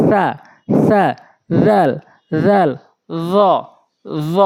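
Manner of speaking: সা জাল র soft with tongue tip at teeth; soft Arabic letters. Shown as a demonstration. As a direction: say them gently, tongue on teeth. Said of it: "নরম করে".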